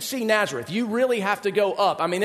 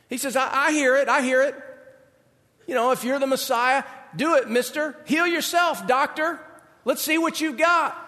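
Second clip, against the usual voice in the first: lightly voiced sneering townsfolk, pitched up; mock taunting crowd; 5 semitones higher than usual. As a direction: dare him, a touch mocking.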